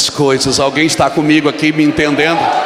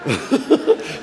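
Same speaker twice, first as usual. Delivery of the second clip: short laugh; 8 semitones higher than usual. Real, not acted. Laughing at own story.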